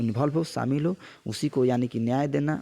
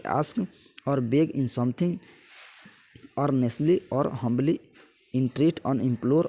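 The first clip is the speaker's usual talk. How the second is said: slow word-by-word reading of a definition; slow dictation; much slower than usual. Acted. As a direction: read it out slowly so students can copy it down. Reads English definition slowly for dictation.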